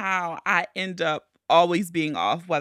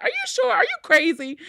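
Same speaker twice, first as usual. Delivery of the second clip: tag; 12 semitones higher, faster than usual. Retold or imitated. Voices doubting mom.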